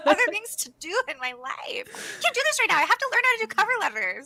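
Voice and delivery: high-pitched comic overwhelm; mock stressed. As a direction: complain in an exaggerated stressed-out voice. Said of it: "now when we're stressed".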